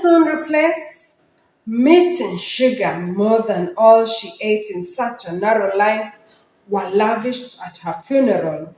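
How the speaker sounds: measured recital with pauses at line ends; poem recitation. Shown as a demonstration. Teacher reciting the poem to students, poem recitation. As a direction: recite it to an audience, letting each line settle. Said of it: "Recite the poem".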